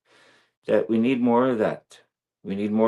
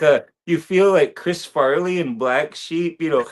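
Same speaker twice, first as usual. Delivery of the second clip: laughing; 7 semitones higher, 4 dB louder than usual. Real, not acted. Laughing while telling the joke.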